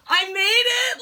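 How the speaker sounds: high, loud fangirl triumph; ecstatic squeal. Retold or imitated. Fan retelling the star laughing at her, ecstatic squeal. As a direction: cry it out in giddy disbelief.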